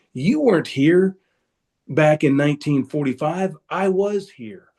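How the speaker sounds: imitating furious father telling off the teacher; retold angry dad. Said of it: "that made my dad infuriated".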